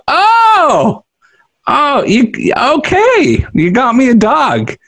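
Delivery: high, squealing imitation of the wife; mock delighted wife. Husband imitating his wife's high delighted squeal. Wife voiced seeing the dog.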